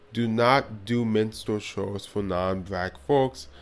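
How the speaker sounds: dry sarcastic advice. Real, not acted. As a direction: say it with a sarcastic edge. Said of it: "I'm being sarcastic".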